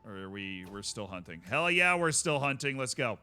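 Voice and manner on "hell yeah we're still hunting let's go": excited. Real, not acted. Thrilled he can still hunt.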